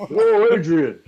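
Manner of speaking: loud mock New York call; New York accent. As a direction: holler it like a hammed-up New Yorker. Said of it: "got the New York pronunciation".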